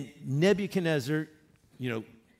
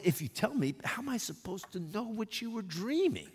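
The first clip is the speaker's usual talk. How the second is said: protesting astrologers; 8 semitones higher than usual. Retold or imitated.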